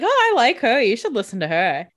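lightly voiced Stefan, gushing then settling; mock smitten Stefan. Stefan praising Bonnie to Elena, a light mock gush. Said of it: "He's like".

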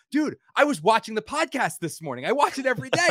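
high, eager fan gushing; excited fan. Retold or imitated. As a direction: play the starstruck fan who can't believe his luck. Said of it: "He goes".

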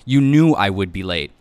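loud defensive yell; yelled from another room. A narrator's reading. Husband in bedroom to angry wife, yelling. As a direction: raise your voice to carry from the bedroom. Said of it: "then yelled from there".

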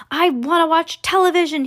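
put-on high, loud whine of a tiny boy; tantrum squeak. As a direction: wail it high, throwing a tantrum. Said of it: "he squeaked".

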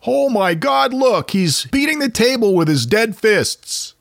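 high, shocked exclaiming; horrified villager. Retold or imitated. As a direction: gasp it out in horror. Villager watching corpse move.

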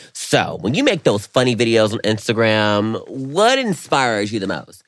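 slow, earnest interviewer voice, drawn out; slow mock reporter addressing Ricky; pretend interviewer. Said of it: "I love when you talk like this".

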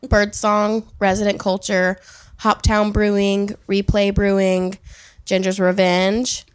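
slow, measured roll call; unhurried announcer list with spaced-out names. Pretend. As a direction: read out each name slowly, like announcing. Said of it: "would you like me to do it in a slow voice".

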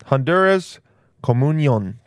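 hint of a Spanish accent; lightly put-on Spanish accent; right accent. Shown as a demonstration. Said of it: "say it with the right accent".

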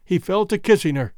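plain reading voice

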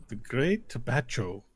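measured, soft translation with long pauses; golem interpreter. Acted. Golem translating for the visitors, soft formal interpreter. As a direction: relay the master's words quietly and formally.

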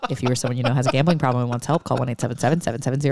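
fast legal disclaimer read; rapid disclaimer. Pretend. Cohost showing off his ad disclaimer, fast read. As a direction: rattle it off like the end of an ad. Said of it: "I can spit out a disclaimer".

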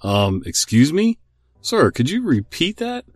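slow, stunned disbelief, rising high; can't believe what you just heard; incredulous. Retold or imitated. Tech support stunned by a customer's claim, slow incredulous. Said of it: "eyes wide, mouth agape".

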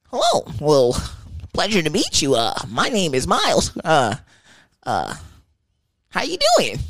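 high, sugary mock-polite greeting; overly nice to mess with him; fake polite. Mocking the angry boyfriend with a sweetly polite greeting. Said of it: "I'm about to fuck with his ass".

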